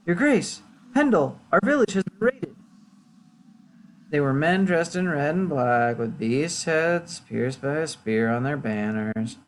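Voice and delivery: troubled villager. Acted. Villager reporting a raid to the lord, lightly troubled. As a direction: report it urgently, then slow for detail.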